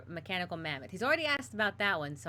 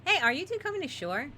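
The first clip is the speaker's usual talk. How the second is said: higher, louder friendly hail; calling out; 9 semitones higher, 5 dB louder than usual. Acted. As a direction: call out across the water, higher and louder. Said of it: "Oh, no, no, no. The first one".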